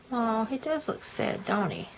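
soft sympathetic whisper. Real, not acted. Reader whispers aside to child.

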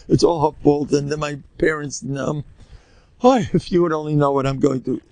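a put-on self-pitying complaint; lightly hammed-up kvetch; mock kvetching. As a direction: pile up the woes in mock self-pity. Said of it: "let's start crying and sit on the floor and kvetch".

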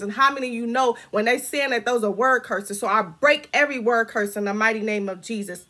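urgent, driving prayer declaration; fervent preaching. Real, not acted. Declaring to viewers that they are not crazy, fervent preaching. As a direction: preach it with rising force, barely stopping. Preaches encouragement and binds curses.

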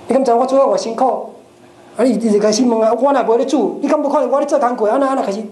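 two helpers snapping at each other; mock quarrel. Acted quarrel in the kitchen. (厨房里互相责怪，提高声调吵架)

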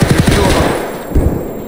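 high and loud alarmed callout; urgent callout. Real, not acted. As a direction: yell it to warn your partner. Urgent callout during firefight.

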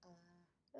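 aah with the tongue pressed down; tongue held down saying aah. Real, not acted. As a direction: open wide and say aah around the depressor. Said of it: "Say, "Ah," again".

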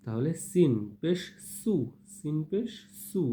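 firm hissing s in 'সিন পেশ সু'; firm sin sound. Shown as a demonstration. Teacher contrasts sin with sa, a firm sharp s on 'সু'. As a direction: press the s of 'সু' harder and hold the vowel. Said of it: "এটা একটু শক্তভাবে বললেই".

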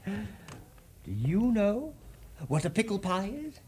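put-on hushed, secretive aside to the children; a playful, conspiratorial whisper. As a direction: lean in and whisper the question. Storyteller teasing listeners with question.

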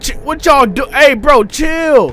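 high, loud frantic shouting; panicked yelling. Real, not acted. Yelling at the creatures to chill, high frantic shouting. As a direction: yell at them to back off.

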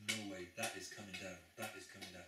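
firm, insistent declaration repeating the verdict; emphatic. Retold or imitated. Jesus insisting to the disciples the temple will fall, emphatic. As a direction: press down hard on each word, no doubt allowed. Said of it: "he's emphatically saying".

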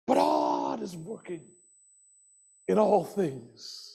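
low, quiet, slow declaration; soft refrain. Acted. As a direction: say it softly, letting it sink in. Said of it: "repeated refrain, soft then loud".

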